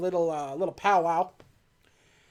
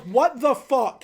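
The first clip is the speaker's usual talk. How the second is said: slow, incredulous mock outburst; mock disbelief; 4 semitones higher, 4 dB louder, much slower than usual. M seeing Bond walk back out, mock disbelief. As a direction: stretch each word in amused disbelief. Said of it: "her face is just like".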